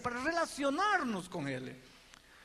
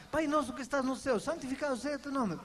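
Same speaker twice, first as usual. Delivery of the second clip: rattled-off rote prayer; 3 semitones higher, faster than usual. Retold or imitated. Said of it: "por que que nós falamos".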